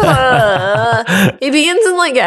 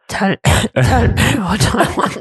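halting, slow try at a superhero growl; badly faked vigilante voice; Batman attempt; 3 semitones lower, slower than usual. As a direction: attempt the hero's threat, breaking into a laugh. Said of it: "Do it in the voice".

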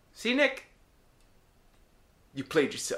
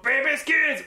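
lightly imitating a comedian; comedian bit; 6 semitones higher, slower than usual. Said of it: "the comedian came up".

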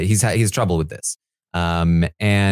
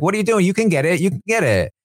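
higher, eager encouragement; cheering him on; 10 semitones higher, faster than usual. Retold or imitated. Housemates urging a struggling player to keep going, eager and high. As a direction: pump him up to get back in the game. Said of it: "they're like".

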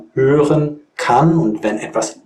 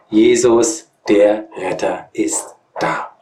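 poem recitation; 2 semitones higher than usual. Acted. Recites the carol verse.

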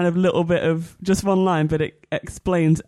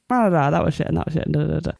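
rapid-fire dismissive gabble; mock nitpicking; 4 semitones lower, much faster than usual. Podcaster imitating their usual complaints, fast mock gabble. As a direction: rattle it off very fast as filler. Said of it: "Normally it's like".

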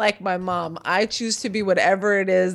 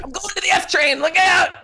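high, mock yell to clear the way; playful high shout; 9 semitones higher, 3 dB louder than usual. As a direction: bark it out like pushing through a crowd. Retelling shoving onto train.

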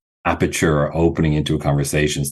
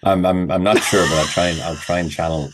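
laughing. Real, not acted. Laughing while agreeing.

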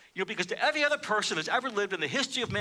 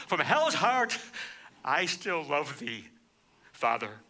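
tender vow; 3 semitones lower, slower than usual. Retold or imitated. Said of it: "In essence, he says".

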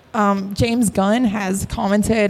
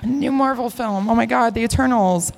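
ordinary delivery

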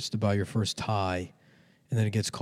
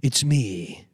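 loud, higher, drawn-out caricature of a street vendor; Chinese dumpling lady; 5 semitones higher, 6 dB louder, slower than usual. Acted. Chinese lady introducing herself on a show, loud and high. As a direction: announce yourself in a hammed-up vendor voice. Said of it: "I can't do the voice".

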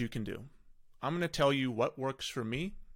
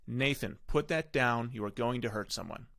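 clear, firm and direct, no pleading; firm authority. Shown as a demonstration. Parent telling son Nathan to put that down, firm authoritative command. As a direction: give the order plainly and calmly in charge. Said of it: "You must talk with authority and clearly".

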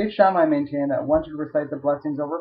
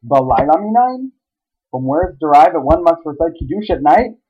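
sardonic question; 3 semitones higher, 6 dB louder than usual. Retold or imitated. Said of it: "goes on to sardonically ask".

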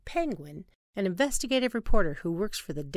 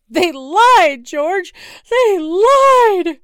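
much higher, very loud; outraged wife; 12 semitones higher, 17 dB louder, much slower than usual. Acted. Wife to husband, shrill outraged yell. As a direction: cry it out in outrage.

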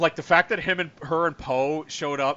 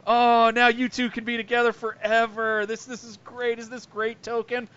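higher, louder, slow mocking cartoon kid; Cartman impression; 9 semitones higher, 5 dB louder than usual. Retelling a South Park scene, mocking Cartman voice. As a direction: gush with fake delight like Cartman. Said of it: "Cartman immediately goes".

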